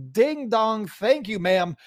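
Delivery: belted-out broadcaster call; home run call. Acted. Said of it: "That, that's gonna be a new catchphrase".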